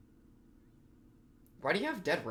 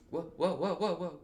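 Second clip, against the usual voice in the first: laughing whoa; 2 semitones higher than usual. Real, not acted. Surprised reaction, laughing.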